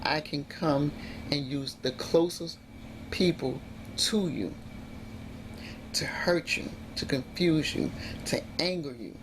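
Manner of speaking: low, measured voice of an unseen power; understated sinister presence; menacing inner voice. Retold or imitated. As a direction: quietly assert your power, slowing toward the end. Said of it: "something says".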